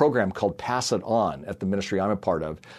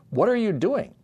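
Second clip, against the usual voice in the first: curious dad; 12 semitones higher than usual. Retold or imitated. Dad asks little daughter.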